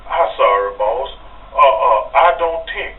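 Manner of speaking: mock French-accented pleading. Imitating Andre's French accent to the boss. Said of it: "with that French accent".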